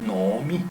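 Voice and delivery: Nomi with a held O, no-o-MI, rising at the end; careful Nomi, second vowel same as the first; long doubled O. Shown as a demonstration. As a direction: stretch the O of Nomi over two syllables. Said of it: "que la vocal anterior".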